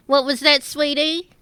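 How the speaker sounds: coy feigned deafness; flirty Orla. Acted. Orla teases Thrun, pretending not to hear, coy.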